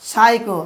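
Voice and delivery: সাইকো starting with an S sound, P silent; silent-P pronunciation. Shown as a demonstration. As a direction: say সাইকো as "SAI-ko", no P. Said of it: "উচ্চারণ কী করবো আমরা".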